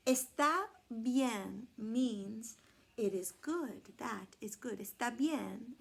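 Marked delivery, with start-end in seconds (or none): 0.1-3.8 slow, careful está bien; Está bien, clearly and slowly; Spanish está bien. Shown as a demonstration. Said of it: "is Spanish for". 4.8-5.8 está bien with a Spanish lilt. Shown as a demonstration. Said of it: "It's Spanish".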